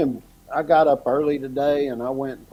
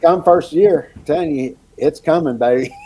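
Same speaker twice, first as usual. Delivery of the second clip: hyped up; 6 semitones higher, 8 dB louder than usual. Real, not acted. Hyping up the launch excitedly.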